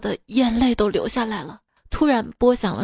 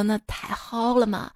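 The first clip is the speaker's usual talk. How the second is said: softer Sichuan dialect; 2 semitones lower, 6 dB quieter than usual. Retold or imitated. Chengdu speaker welcoming the friend, soft Sichuan dialect. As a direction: agree quietly in Sichuanese. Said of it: "说话就是四川话".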